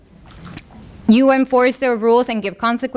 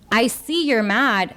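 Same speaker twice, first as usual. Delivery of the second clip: calm validating; slower than usual. Shown as a demonstration. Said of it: "but us saying".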